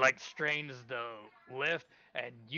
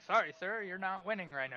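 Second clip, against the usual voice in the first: higher-pitched official voice; apologetic announcer; 7 semitones higher than usual. Acted. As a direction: break bad news as a contest official. Announcer gives ogre bad news.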